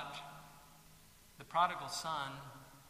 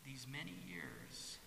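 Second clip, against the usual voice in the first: quiet bitter complaint; 6 dB quieter than usual. Acted. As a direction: grumble your grievance to your father. Older son's bitter complaint.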